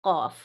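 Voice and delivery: قاف said deep with the back of the tongue; sharp back-tongue قاف; letter demo. Shown as a demonstration. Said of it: "تارک کو لگے تو قاف".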